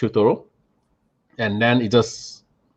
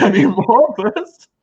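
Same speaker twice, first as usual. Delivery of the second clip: laughing through words; 9 semitones higher, 4 dB louder, slower than usual. Real, not acted. Laughing while retelling his reply.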